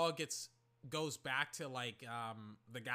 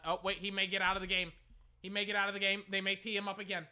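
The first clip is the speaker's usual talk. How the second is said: anxious fan; 4 semitones higher, 6 dB louder, faster than usual. Retold or imitated. Stressed watching the Finals.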